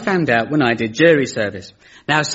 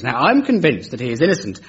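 put-on a light, half-hearted Northern Irish accent. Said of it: "I can only say that in a Northern Irish accent".

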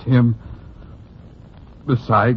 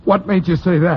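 higher, pressing demand; rising anger; 8 semitones higher than usual. Acted. Cecil presses Broadway again, now angry. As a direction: push harder, getting heated. Cecil repeats, more agitated.

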